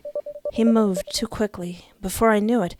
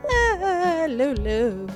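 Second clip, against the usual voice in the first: tearful; 8 semitones higher, much slower than usual. Acted. Moved by offer.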